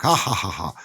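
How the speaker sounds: mocking, taunting "ha ha"; spelled-out mock sinister laughter; imitated sinister laugh. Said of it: "she had this sinister laugh".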